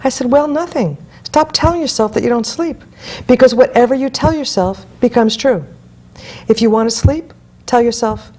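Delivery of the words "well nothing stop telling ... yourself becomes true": higher, emphatic telling-off; retold scolding. Coach telling a client to drop her sleepless story, scolding. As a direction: cut off the excuse, pitched up.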